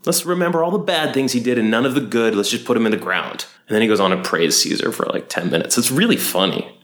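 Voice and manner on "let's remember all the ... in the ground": mock Mark Antony. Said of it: "Mark Antony's like".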